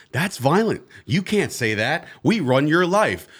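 slow, preachy rule-enforcer voice; stern censor voice. Retold or imitated. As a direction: lecture like a censor, slowly. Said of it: "And Facebook decided to say".

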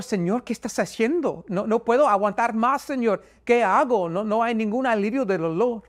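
high-pitched desperate plea, not really shouted; retold crying out. Man in unbearable back pain crying out to the Lord, retold high-pitched plea. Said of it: "empecé a gritar al Señor".

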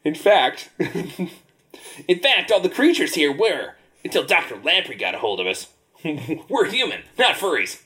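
high sea creature voice; lightly voiced squid.

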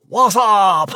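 high, loud, laughing through the slang; laughing repeat. Acted. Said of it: "oui, that was fun".

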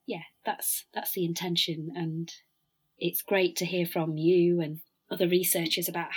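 hoarse, croaky throat; husky, croaky voice from a cold. Real, not acted. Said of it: "I must apologise for my croaky voice".

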